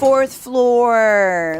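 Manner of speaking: high, loud called out; announcer voice. Acted. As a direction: call the floor like an elevator. Repeats announced floor.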